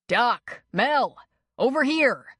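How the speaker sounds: urgent call across the clearing. A narrator's reading. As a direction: shout for help. Calling for medical help.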